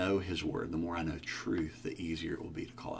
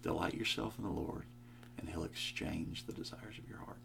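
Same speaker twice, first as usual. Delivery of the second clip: hushed realisation; 6 dB quieter than usual. Retold or imitated. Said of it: "And I thought".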